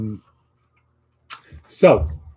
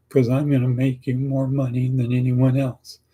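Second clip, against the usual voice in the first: a touch higher, doubtful and unconvinced; unconvincing delivery; 3 semitones higher than usual. Shown as a demonstration. Job candidate answering the interviewer, unconvincing and unsure. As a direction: say it like you don't believe it. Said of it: "No, you gotta be positive like this".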